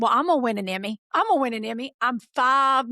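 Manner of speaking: put-on emphatic childlike vow; prophesying child. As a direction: imitate a five-year-old announcing big plans. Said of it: "walk around prophesying that".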